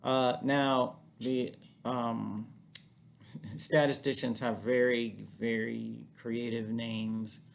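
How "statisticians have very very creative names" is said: dry sarcasm, drawing out the praise; mock admiration, slowing on the last words; sarcastic. Real, not acted. Teacher poking fun at statisticians' naming, sarcastic. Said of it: "I say that totally sarcastically".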